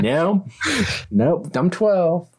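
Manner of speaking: high, slow and giggly "nope, I'm twelve"; laughing protest. Retold or imitated. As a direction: laugh through the correction. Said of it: "I was like".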